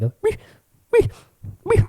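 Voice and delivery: tiny high squeaked wees; imitated whimpering. Recalling a mystery noise over the lake, imitated whimpering. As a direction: whimper in small, spaced squeaks. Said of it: "like, whimpering sound".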